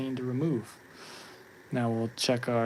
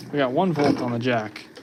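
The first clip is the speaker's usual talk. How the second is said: surprised; 8 dB louder than usual. Real, not acted. Surprised reading on meter.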